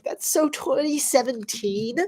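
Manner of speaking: congested attempt at a Valley Girl accent. Shown as a demonstration. Streamer mocking a slogan as dated, in a Valley Girl accent. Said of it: "That was a Valley Girl accent".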